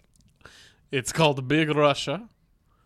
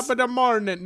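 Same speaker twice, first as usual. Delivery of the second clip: attempted Irish accent; 9 semitones higher, 4 dB louder, faster than usual. Shown as a demonstration. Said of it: "can't figure out how to do Irish accent".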